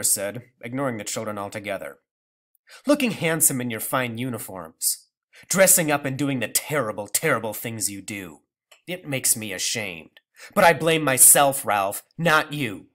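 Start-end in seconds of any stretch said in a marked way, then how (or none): 2.8-12.9 bitter rebuke. Acted.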